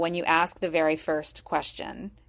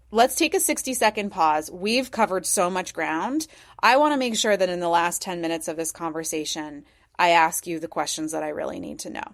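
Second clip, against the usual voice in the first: confident, approachable. Shown as a demonstration. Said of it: "very confidently and ... in an approachable way".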